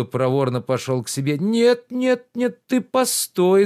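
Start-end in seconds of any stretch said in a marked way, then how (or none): 1.4-3.6 higher, louder reproachful gentleman; lordly rebuke, pitched up and loud; indignant master Oblomov. Acted. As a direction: scold the servant with wounded pride. Oblomov stops Zakhar.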